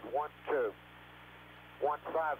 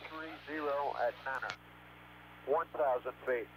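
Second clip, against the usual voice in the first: clipped callouts over a radio link; crackly military radio. Real, not acted. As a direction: read numbers like a pilot on comms. Pilot radio callouts from aircraft.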